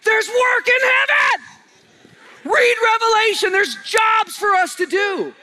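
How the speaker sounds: high, loud preacher's shout, slowing on the key words; loud, high pulpit proclamation; preaching at full force. Acted. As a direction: shout it out to the whole church.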